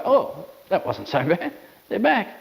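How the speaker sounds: relieved dog voice, rising high at the end; voicing the dog. Trainer voicing the dog's relief when owners return. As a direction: speak as the crated dog, pleasantly surprised. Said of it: "I'll go".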